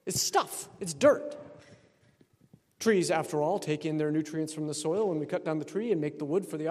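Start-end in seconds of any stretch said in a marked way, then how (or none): 0.1-1.4 breathy whispered aside, pitched up; hushed whisper. Real, not acted. Priest whispers to the congregation: hushed, breathy stuff. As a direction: whisper it like a secret. Stressing the icon's back.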